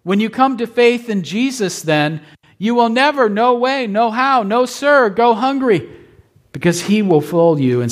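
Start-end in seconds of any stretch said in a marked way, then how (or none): 0.0-5.9 rising, insistent preacher's build on "never, no way, no how, no sir"; higher pitched, escalating "never, no way, no how"; emphatic build. Acted. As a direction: stack each "no" higher and stronger. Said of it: "never, is emphatic".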